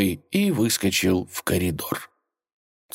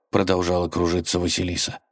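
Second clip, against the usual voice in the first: plain reading voice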